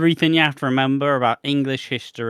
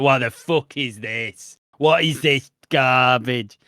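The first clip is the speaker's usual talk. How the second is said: slow, disgusted mock outrage; exasperated viewer; 2 semitones lower, slower than usual. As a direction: drag it out in disbelief. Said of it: "You'll just be like".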